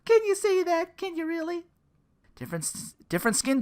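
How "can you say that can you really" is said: mock scandalized.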